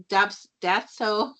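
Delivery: slow, halting stumble on "Datso"; tongue-twisted. Real, not acted. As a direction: trip over "Datso", restarting after a false "Daps-". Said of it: "I'm tongue twisting over it".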